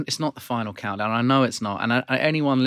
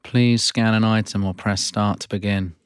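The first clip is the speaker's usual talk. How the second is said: machine-like checkout announcements; self checkout prompts. Acted. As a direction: read it like a supermarket self-checkout voice. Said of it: "You are playing the character Prompt".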